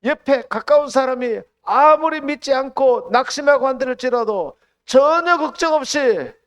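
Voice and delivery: high, loud preaching at full force; fiery preaching. Acted. Preacher to the congregation, fiery preaching. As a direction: proclaim it to the whole church.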